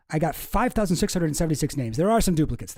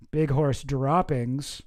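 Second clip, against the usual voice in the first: Garfield voice; much slower than usual. Retold or imitated. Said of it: "But he's like Garfield voice".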